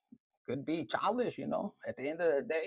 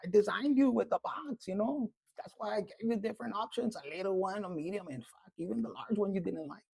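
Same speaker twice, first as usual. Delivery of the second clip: higher-pitched, incredulous scolding; lightly voiced universe, pitched up in disbelief; indignant universe; 3 semitones higher than usual. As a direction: speak as the universe, taken aback. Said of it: "the universe is like".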